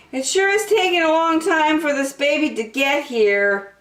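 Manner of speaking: put-on a small boy waiting impatiently; young turtle voice. Franklin telling his parents, childlike voice.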